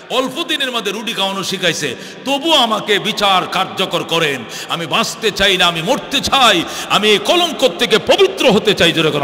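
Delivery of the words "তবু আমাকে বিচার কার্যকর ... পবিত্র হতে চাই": building, insistent preacher's appeal; impassioned plea. Retold or imitated. Woman demands her punishment.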